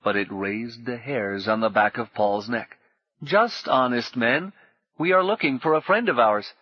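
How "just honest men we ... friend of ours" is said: a hint of creepy sweetness; sweet stranger. A narrator's reading. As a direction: coax like a sinister charmer. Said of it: "smooth and almost childishly sweet".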